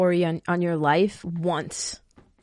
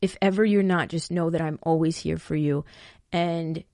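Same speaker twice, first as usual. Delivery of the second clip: gentle. Shown as a demonstration. To a friend in a toxic relationship, gentle and caring. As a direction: reassure gently, no pressure. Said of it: "very gentle way".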